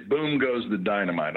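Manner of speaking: put-on slow, loud British accent. Actor showing off the British accent from his show, British accent. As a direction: play it British, drawn out and loud. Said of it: "I love doing that accent".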